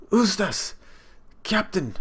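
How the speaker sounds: high, urgent call. Acted. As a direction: shout the name in alarm. Voices crewmates calling out.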